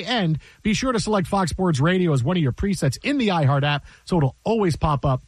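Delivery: brisk announcer plug for the app; steady, upbeat on-air read; radio promo read. Acted. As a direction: sell it like a station ID. Reads the station promo.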